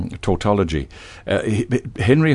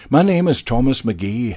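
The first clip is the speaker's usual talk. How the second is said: Braveheart rallying speech; 4 semitones higher than usual. Acted. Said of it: "a la Braveheart".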